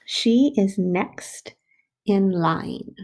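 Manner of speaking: slow, even word by word; teacher dictating a sentence; slow dictation. Shown as a demonstration. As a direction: dictate it slowly to the class. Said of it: "our next sentence is going to say".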